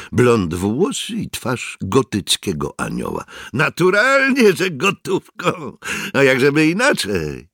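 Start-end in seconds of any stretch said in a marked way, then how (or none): 3.5-7.5 pitched-up youth, starting loud; high boyish voice. A narrator's reading. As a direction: answer like a brash boy. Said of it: "Miał wysoki chłopięcy głos". (wysoki chłopięcy głos)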